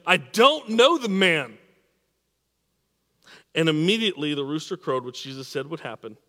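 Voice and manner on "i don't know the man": slow, loud, high-pitched vehement denial; forceful dramatised oath, drawn out and raised; cursing, swearing denial. A narrator's reading. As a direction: swear it loudly, stretching the words. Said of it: "call down curses and swore".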